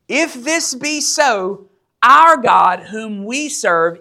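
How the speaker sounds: slow, weighty scripture declamation; solemn declamation. Acted. Three men answering the king from scripture, slow declamation. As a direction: proclaim it word by word.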